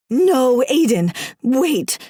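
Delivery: loud no, then slow pleading; desperate plea. Acted. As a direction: beg him to stop, drawn out. Begging husband not to strike.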